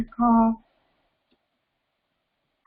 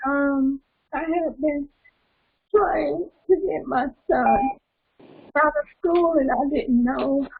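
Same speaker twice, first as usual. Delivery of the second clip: teary-eyed; 4 semitones higher than usual. Real, not acted. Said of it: "I'm kinda getting teary-eyed".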